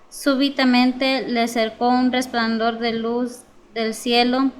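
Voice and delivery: scripture reading. Acted. Congregant reads Paul's conversion for the preacher, scripture reading. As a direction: read the verses out clearly to the room. Reads the Bible passage aloud.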